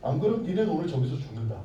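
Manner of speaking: threatening king. Acted. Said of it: "그렇게 협박을 했어요".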